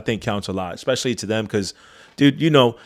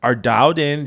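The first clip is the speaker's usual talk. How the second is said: higher, lightly excited inner voice; impressed; 6 semitones higher than usual. Retold or imitated. To his partner, recalling the crew, mildly excited. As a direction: sound pleasantly amazed. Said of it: "I was like".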